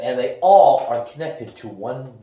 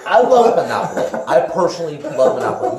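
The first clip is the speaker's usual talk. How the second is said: laughing defense; 7 dB louder than usual. Real, not acted. Defending pick while laughing.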